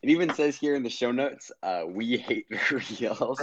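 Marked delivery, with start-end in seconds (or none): 1.9-3.4 laughing. Real, not acted. Reading show notes, laughing.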